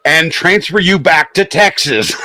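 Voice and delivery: high, laughing delivery; real amusement breaking into the words. Real, not acted. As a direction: laugh through the punchline. Laughing through own punchline.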